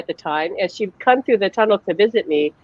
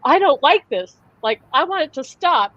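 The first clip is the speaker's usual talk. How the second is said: high-pitched imitation of upset mother; retold freak-out; 8 semitones higher than usual. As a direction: act out her distressed plea, voice raised in pitch. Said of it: "she starts freaking out again".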